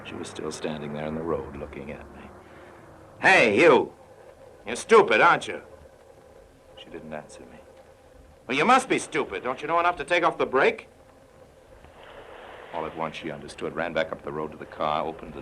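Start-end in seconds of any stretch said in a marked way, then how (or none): 3.2-5.6 sharp, high shout across the road; Harry calls to the girl stuck on the road, a raised shout; calling out. Acted. 8.5-10.9 high, impatient shout at her; Harry yells to the girl at the stuck car, impatient shout; exasperated call. Acted. Yelling advice at stranded girl.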